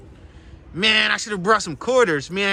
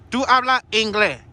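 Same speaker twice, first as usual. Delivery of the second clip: higher mock-Spanish question; 4 semitones higher than usual. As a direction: put on a Spanish accent. Asks ducks in mock Spanish.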